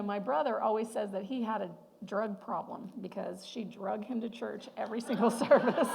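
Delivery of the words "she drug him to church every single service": laughing through the punchline; cracking up on the last words. Real, not acted. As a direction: giggle breaking into the line. Punchline about brother's joke.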